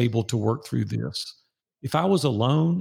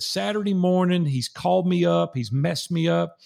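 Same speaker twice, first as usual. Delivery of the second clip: retold fury; 6 semitones higher than usual. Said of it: "I was furious at this guy".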